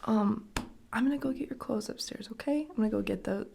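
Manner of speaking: put-on calm a tired little girl; soothing. Mom gently soothing her tired daughter.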